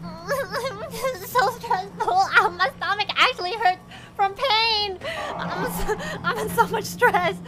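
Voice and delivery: laughing through the stress; nervous laughter. Real, not acted. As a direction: giggle shakily in panic. Nervous laughing after scare.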